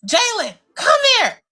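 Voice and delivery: high drawn-out call to her son. Retold or imitated. Mother calling her son upstairs, high and drawn out. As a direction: sing it out up the stairs.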